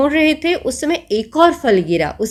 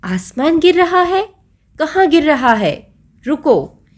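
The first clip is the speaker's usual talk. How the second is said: lion's roar; 6 semitones higher than usual. Acted. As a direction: roar the question like a lion king. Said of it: "शेर ने दहाड़ कर कहा".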